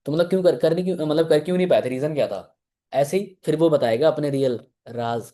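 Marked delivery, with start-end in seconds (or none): 0.1-2.4 higher-pitched, stumbling run of questions; probing questions. Acted. Coach grilling a recruit who says they tried before, mildly pressing. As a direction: press them for the reason.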